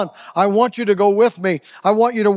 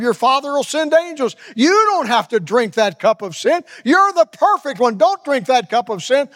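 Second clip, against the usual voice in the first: tempting devil; 4 semitones higher than usual. Acted. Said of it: "The devil is whispering".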